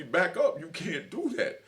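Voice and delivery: imitating guards telling him to back off; mock guard order. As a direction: play a guard barking at him, laughing through it. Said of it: "Or them to tell me".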